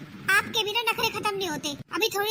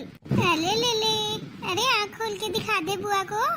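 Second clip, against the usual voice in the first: put-on cooing at a baby; 2 semitones higher, slower than usual. Aunt coos at her sleeping nephew, slow baby talk. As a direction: coo it out to the newborn.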